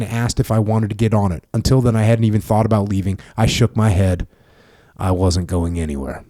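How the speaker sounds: steady memoir narration, read aloud; book reading. Acted. Host reading his book to the veteran, steady narration. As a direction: read the war memoir passage evenly.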